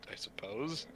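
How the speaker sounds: whispered, grudging I suppose; reluctant whisper. Acted. Monk grudgingly agreeing to the wedding, whispered. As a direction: breathe it out, barely agreeing.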